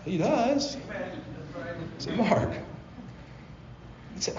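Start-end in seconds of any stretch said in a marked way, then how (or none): 2.2-2.5 gentle calling of a name. Retold or imitated. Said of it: "the Lord very gently said".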